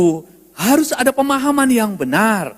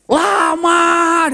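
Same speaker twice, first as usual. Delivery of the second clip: drawn-out emphasis; 5 semitones higher than usual. Acted. Mimics wife's long browsing.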